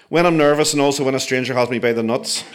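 nervous squeaky voice. Retold or imitated. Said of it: "I continued squeakily".

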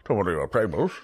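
high, flustered, stammering barkeep; an anxious bartender tripping over his words; nervous bartender. Acted. GM voices Barry again.

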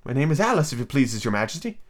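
mildly polite little reply. A narrator's reading. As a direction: answer a queen with courtesy. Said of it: "Alice said very politely".

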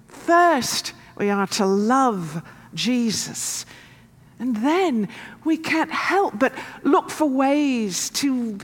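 light South African accent, lightly voiced; a hint of a South African parishioner. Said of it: "my South African accent isn't better".

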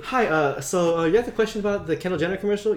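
fast, polite phone-support voice; customer service voice. Shown as a demonstration. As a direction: greet them like a helpful call-center agent. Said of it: "customer service voice".

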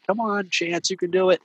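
high, loud cheering from the film; cheering the dog on. Retold or imitated. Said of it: "Chance, like".

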